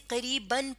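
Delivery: قریباً ending in a short a, "-ban"; pron with zabar: ban. Shown as a demonstration. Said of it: "دو زبر ہے". (قریباً کا آخر زبر سے، "بَن")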